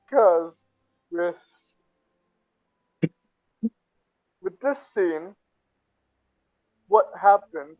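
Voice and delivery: laughing. Real, not acted. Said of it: "he's laughing right now".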